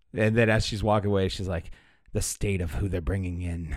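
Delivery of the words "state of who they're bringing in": sneering, lower, quieter, slower. Voicing a half-elf who keeps looking at you as she walks away, sneering. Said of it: "kind of sneers like".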